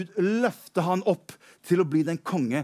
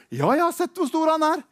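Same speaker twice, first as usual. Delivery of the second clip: bold reply; 9 semitones higher, faster than usual. Acted. David answers Saul boldly.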